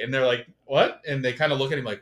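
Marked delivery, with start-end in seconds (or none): 0.6-1.0 sharp, loud, high what; mock disbelieving what; startled teammates asking what; surprised what. Teammates react to gay joke.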